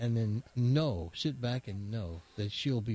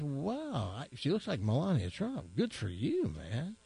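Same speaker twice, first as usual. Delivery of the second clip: impressed policeman. Acted. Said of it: "the police officer says".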